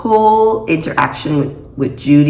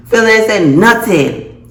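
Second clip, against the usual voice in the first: incredulous mock quote; 7 semitones higher, 6 dB louder, slower than usual. Reacting to Phil's silence.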